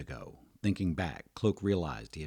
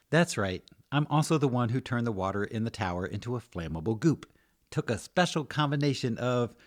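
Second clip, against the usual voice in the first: high, loud, enthusiastic woman; proud tinkerer getting carried away; rambling potion maker; 7 semitones higher, 7 dB louder than usual. Acted. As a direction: ramble eagerly about your own handiwork. Potion maker rambles about her work.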